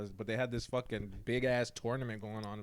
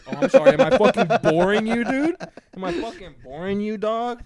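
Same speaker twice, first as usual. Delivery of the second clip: mock angry yell; 9 semitones higher, 14 dB louder than usual. Mock outrage at yawning listener.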